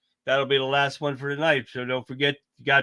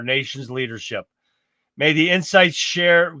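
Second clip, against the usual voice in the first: measured, declamatory scripted address; formal sign-off read. Acted. Host closing tonight's show for fellow truth seekers, formal sign-off read. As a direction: deliver a formal closing statement, pausing between phrases.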